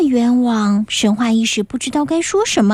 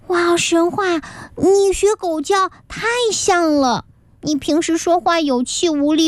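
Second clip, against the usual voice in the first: admiring exclaim. Acted. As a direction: gush with awe at his barking. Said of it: "最终佩服地说". (女孩佩服地惊叹，声音偏高)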